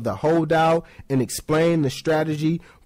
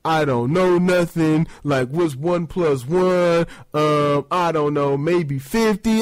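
slow, dopey jock, a touch dim; a mild dumb-jock voice, slow; lightly voiced dumb jock. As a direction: play a clueless jock fumbling math. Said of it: "It's not like".

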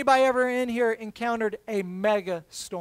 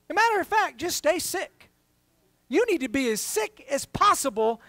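higher, mocking mock advice; dry sarcastic jab; 3 semitones higher than usual. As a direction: sneer it as absurd advice.

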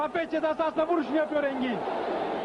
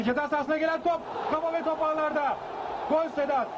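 screaming football commentator; 4 semitones higher than usual. Acted. Commentator calls equalising goal.

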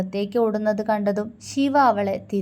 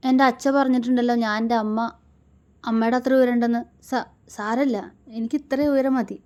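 put-on higher, louder girl's voice, defiant; hurt young wife; 4 semitones higher, 4 dB louder, faster than usual. Wife stung by teasing about her height, higher and louder. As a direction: push back hard to hide the hurt.

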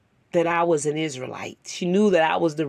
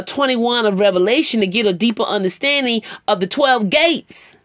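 preaching; 4 dB louder than usual. Acted. Exhorting listeners toward obedience.

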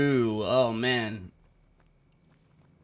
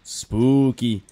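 cartoon spooky; 5 dB louder than usual. Shown as a demonstration. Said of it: "the difficulties would go spooky".

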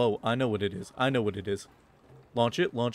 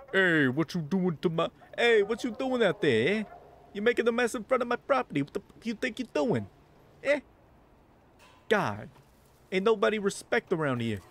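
angry shopkeeper; 7 semitones higher than usual. Acted. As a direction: scold the cat for messing up your shop. Voicing angry shopkeeper NPC.

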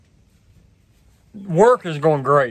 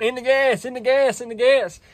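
imitating trainer yelling; 7 semitones higher than usual. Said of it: "my trainer's over yelling".

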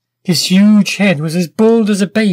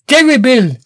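Terrible! pitched higher in a falling theatrical wail; hammed-up mock horror; 7 semitones higher, 4 dB louder than usual. Inventor feigning dismay, now hammed up higher. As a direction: overplay Terrible! with a lifted, swooping cry.

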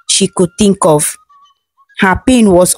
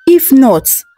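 higher-pitched threat, no real yelling; mild narrated shout; 5 semitones higher than usual. A narrator's reading. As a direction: warn angrily, lifting the pitch rather than volume. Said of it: "the queen shouted".

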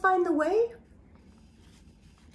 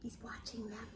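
much softer, suspenseful aside; hushed; 4 semitones lower, 20 dB quieter than usual. Acted. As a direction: drop the voice low and secretive.

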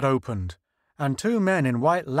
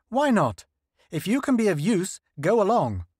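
lightly raised voice of an eager official; a hint of a higher, hopeful leader; Senate leader voice; 7 semitones higher than usual. Senate leader asks scientists about the alien ship, lightly raised voice.

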